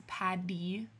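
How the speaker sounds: "Paddy" said slowly with a clear d; "Paddy", a d in place of the t; D sound in Paddy. Shown as a demonstration. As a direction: stress the soft d in "Paddy". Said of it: "With a do sound".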